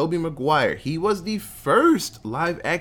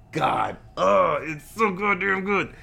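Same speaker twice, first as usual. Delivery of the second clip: gushing; 3 semitones higher, slower than usual. Real, not acted. Gushing about Spider-Man 2.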